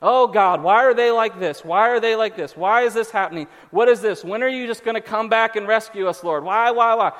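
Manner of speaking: loud, mildly mocking plaintive prayer; whining, complaining. Believers complaining to God in prayer, mock whining. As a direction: pile up complaints, imitating whiners. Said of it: "we're just whining and complaining".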